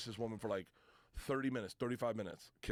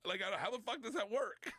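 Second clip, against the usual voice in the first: much higher, rattled rant; flustered panic; 10 semitones higher than usual. Retold or imitated. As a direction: sputter it, totally lost. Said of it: "And I was like".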